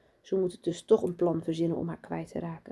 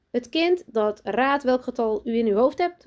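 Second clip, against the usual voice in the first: put-on mildly raised, higher child's call; 6 semitones higher, 5 dB louder than usual. A narrator's reading. Sanne offers teacher her idea, calling out. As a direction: call out a suggestion, lightly voiced. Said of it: "roept Sanne".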